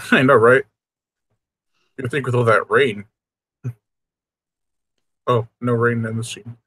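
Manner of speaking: ordinary delivery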